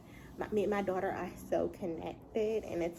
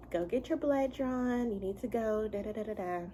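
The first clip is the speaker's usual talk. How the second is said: excited nagging; 3 semitones higher than usual. Retold or imitated. Husband urging wife to get blood drawn, mildly excited nagging. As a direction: lightly imitate an eager husband's insistent singsong urging. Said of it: "he is excited".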